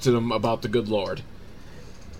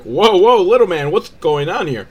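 raised, loud acted surprise; mock startled concern; 5 semitones higher, 5 dB louder than usual. Passing guy to the little baby left behind, mock startled concern. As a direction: pull up short with big whoas.

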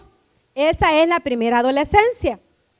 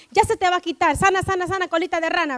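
put-on gentle sing-song comfort for a hurt child; soothing parent; 5 dB quieter, faster than usual. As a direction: lull a little one, trailing softer. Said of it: "le digo yo". (arrullo suave de mamá que consuela)

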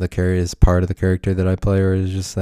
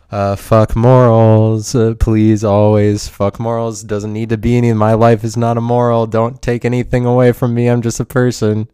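loud, defiant protest; defiant rant; 2 semitones higher, 5 dB louder than usual. Acted. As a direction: push back loudly against being moralised at. Rant rejecting demand for a moral.

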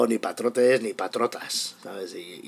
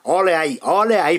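loud delighted cheer; excited cheer; 7 semitones higher, 9 dB louder than usual. Real, not acted. Cheering the headline.

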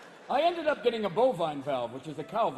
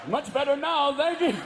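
higher, louder coy answer; breathy feminine reply; 7 semitones higher, 5 dB louder than usual. Acted. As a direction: play it girlish. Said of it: "How are you?".

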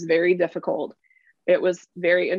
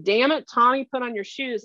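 mock scolding parent; 5 semitones higher than usual. Contrasting an impatient parent nagging the child, mildly exasperated. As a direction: lightly mimic an impatient parent. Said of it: "there's a big difference between".

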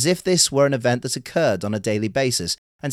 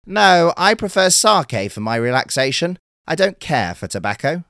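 a lightly raised, chatty little turtle; 7 semitones higher, 6 dB louder than usual. Acted. Turtle tells the fisherman it prefers sake, light high voice. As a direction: voice the turtle a bit higher, friendly.

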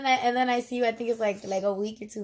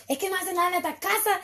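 high, fast, exasperated mom yell; mock screaming mom; 7 semitones higher, faster than usual. Mother scolding kids about housework, high fast mock yell. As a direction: rattle it off like a fed-up mother. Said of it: "when you hear your mom screaming".

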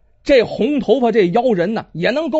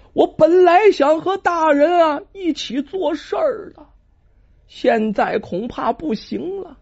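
put-on weak dying boy; 5 semitones higher than usual. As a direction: breathe the words out like a dying child. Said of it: "说话的声音呢，极其微弱呀". (气若游丝的苦孩儿)

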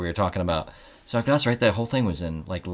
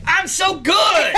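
high, slow, laughing brag; gloating shout; 3 dB louder, much slower than usual. Retold or imitated. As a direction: crow it out gleefully. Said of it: "you're like".

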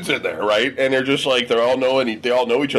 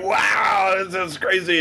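mock amazed wow; 5 semitones higher, much slower than usual. Strangers amazed by names.

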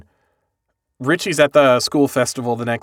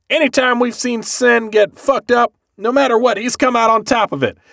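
high eager reassurance; 10 semitones higher than usual. Retold or imitated. Richie confidently reassuring family.

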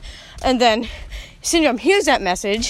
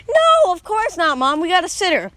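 put-on defensive kid; 6 semitones higher, 3 dB louder than usual. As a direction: protest to mom like an offended kid. Kid answers mom's scolding.

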